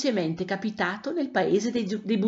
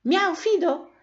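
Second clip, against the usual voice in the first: high-pitched friendly cat meow; cordial greeting; 10 semitones higher, slower than usual. A narrator's reading. Chalk cat greets the cat Fido, cordially. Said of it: "lo salutò cordialmente".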